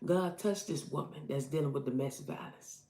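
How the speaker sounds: quiet prayer. Retold or imitated. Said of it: "And I said".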